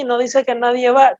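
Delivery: "va" given a falling stress. Shown as a demonstration. Preacher setting the wrong word "va" before the congregation, stressed. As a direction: lean on the word "va" and let it drop. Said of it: "¿Por qué no dice nadie va sino nadie viene?".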